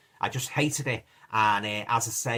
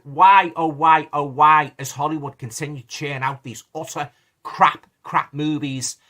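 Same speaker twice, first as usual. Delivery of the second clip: louder, wailing why, oh, why; exasperated lament; 3 semitones higher, 8 dB louder, slower than usual. Real, not acted. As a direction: throw up your hands at Hollywood, loudly. Exasperated rant about Hollywood films.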